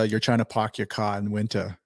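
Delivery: dropped R Boston "park your car", lightly done; a mild imitation of a Boston accent, r's dropped. Drafted by Boston, mimicking the local Boston accent. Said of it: "you get to hear the, the actual".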